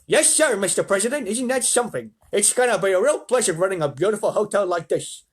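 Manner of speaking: high, eager manager voice; hotel manager's put-on voice. A narrator's reading. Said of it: "What voice should I do for him?".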